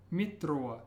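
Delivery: "mitro" with the r rolled on the tongue. Shown as a demonstration. Teacher reminding learners to watch the R, rolled. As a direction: roll the r clearly in "mitro". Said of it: "Watch your R as a rolled R".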